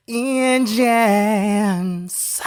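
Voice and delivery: high, held-out call; stretched high announcer's cue; drawn-out show call. Pretend. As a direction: sing it out high and long like a race starter. Mock race-start call on the show intro.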